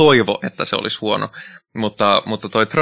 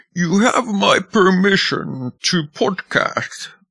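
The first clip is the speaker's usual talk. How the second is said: clumsy villain voice, very slow, drawn out, pitched up; 9 semitones higher than usual. Saying a voice sounded like Bane in Dark Knight Rises: bad Bane impression. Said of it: "se oli huono imitaatio".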